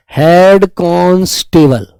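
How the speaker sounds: हेड कांस्टेबल drawn out slowly, word by word; slow dictation. Shown as a demonstration. Teacher dictating to children, slow. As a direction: spell it out slowly for students writing. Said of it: "तो हेड कांस्टेबल के लिए आप जानते हैं".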